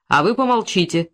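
stern. Acted. The investigator silencing the suspect, stern and firm. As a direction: cut him off sternly. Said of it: "строго сказал".

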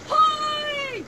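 high, loud hail across the water; calling out. Acted. Penny hails the departing boat, loud call. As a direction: shout to the boat to wait.

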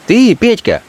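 high, bright call across the boulevard; a young woman hailing a man in the street; Fenka calling out. Acted. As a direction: call him back, high and urgent. Fenka calls out to Petka.

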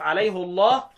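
الله with a thick dark l after alayhu; heavy lam, tafkhim. Shown as a demonstration. Teacher showing Hafs's Name of God, heavy lam in الله. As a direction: say عليه الله as alayhu-llah. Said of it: "لما تقرأها الحفص هتفخمه".

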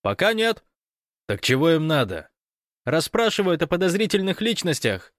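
high, loud breathless report; excited Fyodor on the phone. Acted. Fyodor reporting the invasion to Gosh by phone, excited. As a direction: rattle it off, caught up in the drama.

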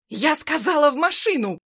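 high, loud angry order; furious shout. Acted. Armed woman screams her order again, high and loud.

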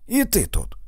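high exclamation of dismay; exasperated, high-pitched protest. A narrator's reading. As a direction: cry out, pitch jumping well up. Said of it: "вигукнув Фредді".

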